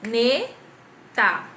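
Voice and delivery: ne and ta each said loud and separate; ne, ta struck one by one; clapped syllables. Shown as a demonstration. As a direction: beat out the syllables. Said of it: "que foi a primeira palminha".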